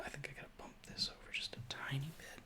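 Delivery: quick whispered aside to himself. Real, not acted. Host mutters to himself adjusting the camera, whispered. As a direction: whisper it off-mic while fixing the camera.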